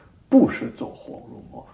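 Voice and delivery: loud, insistent denial; firm rebuttal. Retold or imitated. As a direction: set him straight firmly. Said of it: "correcting the policeman".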